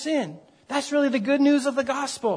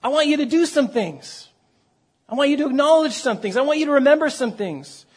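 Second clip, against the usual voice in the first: higher-pitched, firm self-exhortation; earnest pep talk to oneself, pitched up; David exhorting his soul; 4 semitones higher than usual. Acted. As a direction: lightly act out a man instructing his own soul. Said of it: "David is talking to himself, his soul".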